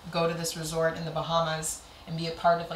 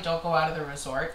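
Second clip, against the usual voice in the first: mildly cautioning, at her usual volume; lightly voiced warning from others; cautionary warning; 3 semitones lower than usual. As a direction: quote a well-meant warning. Quoting warning, then countering it.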